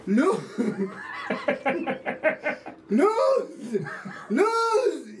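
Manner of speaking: high, insistent calls of a name; calling out. Retold or imitated. Storyteller hails an actress who won't turn round, high calling out. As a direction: shout the name to get a head to turn.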